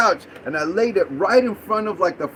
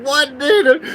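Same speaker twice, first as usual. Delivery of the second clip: higher, louder startled outburst; incredulous yelp in a retelling; retold disbelief; 7 semitones higher, 6 dB louder than usual. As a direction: act out being caught off guard. Retelling his startled reaction.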